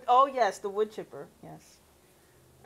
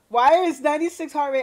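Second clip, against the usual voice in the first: surprised; 6 semitones higher, 12 dB louder, faster than usual. Real, not acted. Streamer surprised at heart monitor.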